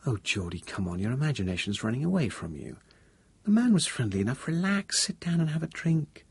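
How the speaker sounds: gently dismissive partner, a hint of a female voice; Tracy, lightly voiced. Narrator voices Tracy calming him.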